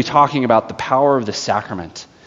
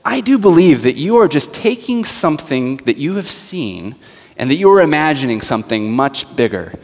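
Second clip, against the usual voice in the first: dramatic witch. Retold or imitated. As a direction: act it fully, measured and condescending. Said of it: "what happens when I get into the story".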